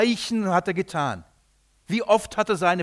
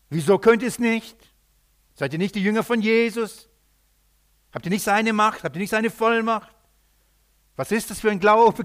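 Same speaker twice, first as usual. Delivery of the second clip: higher-pitched, pressing questions; challenging questioning; 4 semitones higher, 3 dB louder than usual. Retold or imitated. Scribes challenge the disciples in front of the crowd, challenging. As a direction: imitate critics firing challenges. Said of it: "dann ging die Diskussion los".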